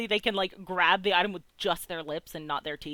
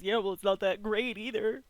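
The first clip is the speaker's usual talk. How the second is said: grumpy; 3 semitones higher than usual. Acted. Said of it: "in a way that says".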